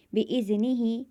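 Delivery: बिइज़निही chanted slowly, the final ही held one alif's length; slow, stretch the ही at the end; slow Quranic recitation. Shown as a demonstration. Teacher reciting बिइज़निही to students, ही stretched. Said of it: "ज़्यादा नहीं खींचेंगे".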